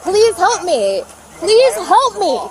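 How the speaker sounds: begging for help, slowly; desperate pleading. Real, not acted. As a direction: plead as if truly scared. Daughter pleads during arrest.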